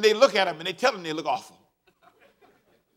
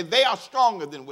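slow lead; 3 semitones lower, 3 dB louder than usual. Shown as a demonstration.

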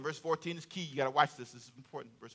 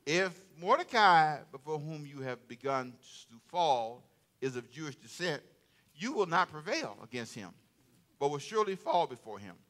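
1 quiet reading; 3 semitones lower, 6 dB quieter than usual. Acted. Quoting wife Zeresh's warning.

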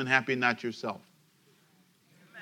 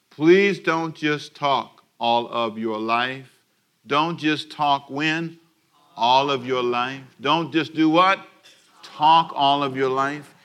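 every word slow and weighted; drilled phrase; much slower than usual. Shown as a demonstration. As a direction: hammer it home word by word.

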